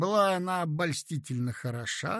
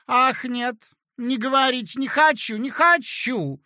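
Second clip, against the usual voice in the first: higher, louder angry refusal; angry cry; 8 semitones higher, 8 dB louder than usual. A narrator's reading. Elena refusing to hear more, crying out angrily. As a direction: shout her no like a stubborn child. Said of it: "закричала она вдруг, совсем рассердившись".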